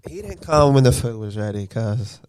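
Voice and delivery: imitating the wife. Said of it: "At least a little like I actually talk".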